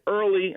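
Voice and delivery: early pressed hard and drawn out; stress on early. Shown as a demonstration. Doctor hammering home early to the host. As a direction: lean on the word early. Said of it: "emphasis on that word".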